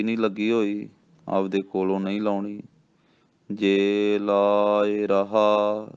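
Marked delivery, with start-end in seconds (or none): 3.5-5.9 drawn-out chanted reading, each word stretched; slow devotional recitation with a held ਰਹਾ; slow gurbani recitation. Shown as a demonstration. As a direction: recite it slowly like scripture. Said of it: "ਇਹ ਰਹਾ ਹੀ ਬੋਲਣਾ ਹੈ".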